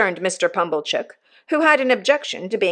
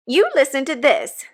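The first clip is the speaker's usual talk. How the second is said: severe; 7 semitones higher than usual. A narrator's reading. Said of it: "in a severe parenthesis".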